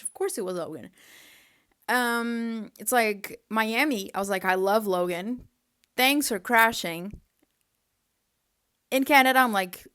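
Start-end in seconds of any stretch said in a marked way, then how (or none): 4.4-7.2 sarcastic thanks. Retold or imitated. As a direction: thank him like you mean the opposite. Sarcastic thanks to crashing driver.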